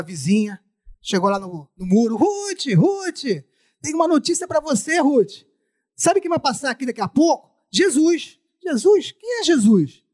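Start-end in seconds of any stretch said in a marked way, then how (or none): 2.2-8.4 high excited neighbor calling over. Acted. Neighbor calls Ruth over wall. 8.6-10.0 surprised. Acted. Ruth answers the neighbor.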